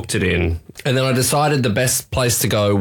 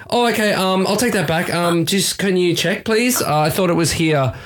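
flustered; 6 semitones higher than usual. Retold or imitated. Flustered retold reply.

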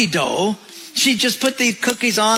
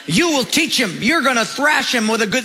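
a touch of a ranting mom, pitched up; lightly hammed-up scolding; mock ranting mother; 4 semitones higher than usual. Mother ranting at her husband about their son, mild mock anger. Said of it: "she starts to rant and rave".

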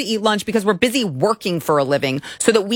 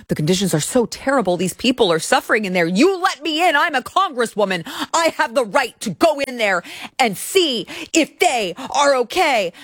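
mocking congresswoman; 5 semitones higher than usual. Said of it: "The same shit that they're saying now".

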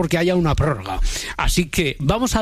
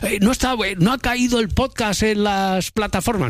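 mock listener complaint; 5 semitones higher than usual. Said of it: "algún mensaje diciendo".

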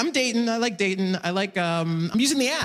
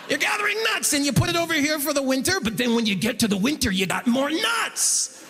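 higher, faster, hammed-up explainer; banker's squirrel voice; 4 semitones higher than usual. Banker explaining nuts for winter, hammed-up and high. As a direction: oversell it like a kids' show host. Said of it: "that's the voice he's using too".

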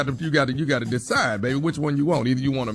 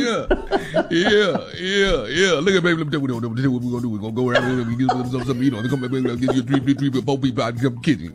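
Southern boyfriend impression; 3 semitones lower than usual. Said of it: "No one knows what you're saying".

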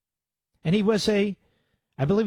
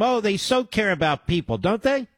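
higher-pitched mock admiration; sarcastic; 5 semitones higher than usual. Real, not acted. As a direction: pretend to praise them, sarcastically. Sarcasm at opponents' crocodile tears.

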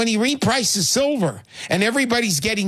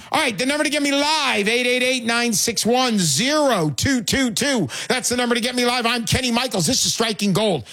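higher-pitched call-in plug; radio host announcement; 4 semitones higher than usual. Real, not acted. Host giving listeners the live number, radio announcer delivery.

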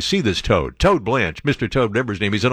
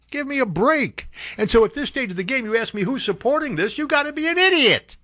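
way up high, building to a mocking peak; shrill scornful disbelief climbing higher; exasperated outburst; 11 semitones higher than usual. Real, not acted. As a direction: scoff at the supporters' idiocy. Ranting at the supporters.

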